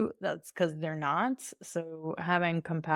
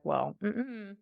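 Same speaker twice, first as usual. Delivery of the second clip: sassy, rising to loud; sassy refusal; 5 semitones higher, 5 dB louder than usual. Pretend. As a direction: give it some sass. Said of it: "your body's gonna be like".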